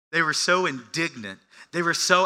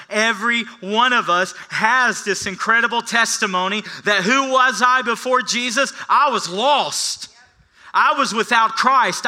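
rising sermon fervor; 9 semitones higher, 9 dB louder than usual. Acted. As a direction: preach it, climbing louder and higher. Preacher builds to full force.

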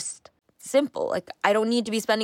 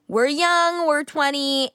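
bright excited lift; 7 semitones higher, 3 dB louder, slower than usual. Real, not acted. Upbeat shrug about being young.

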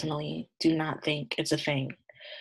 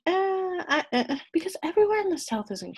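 laughing; 13 semitones higher than usual. Real, not acted. Defending herself while laughing.

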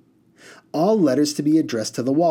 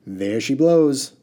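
slow, louder triumphant call; crying out; 3 semitones higher, 5 dB louder, much slower than usual. Acted. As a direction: announce the find proudly. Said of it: "cried the water genie".

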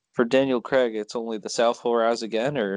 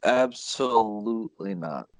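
slow, drawn-out joking refusal; mock refusal; slower than usual. Co-host asked to recommend the film, mock refusal. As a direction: stretch it out as a put-on verdict. Joke answer, then admits kidding.

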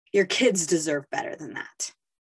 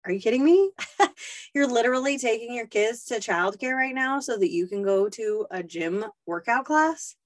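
incredulous mockery; 4 semitones higher than usual. Inner voice shaming mom over childcare, incredulous mockery. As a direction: sneer like a nagging inner voice. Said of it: "little whispers that say".

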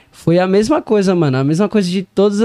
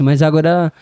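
ordinary talk

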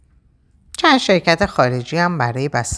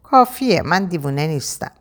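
frowning retort; 3 semitones higher than usual. Acted. Raham frowning at Matin, insisting he isn't crazy. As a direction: pout and protest, only half serious. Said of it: "رهام اخم کرد و گفت".

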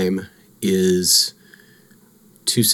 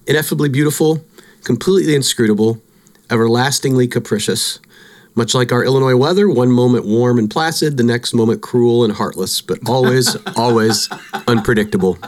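dramatic reading; 2 semitones higher than usual. Acted. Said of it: "I found this".

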